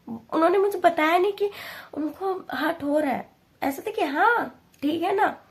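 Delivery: strained with sadness; upset. Real, not acted. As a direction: close to crying, pitch lifted. Grief about parents hiding hurt.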